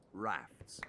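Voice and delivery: soft unvoiced whisper. A narrator's reading. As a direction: breathe it so the beast stays asleep. Sleeping T-rex nearby, whispered.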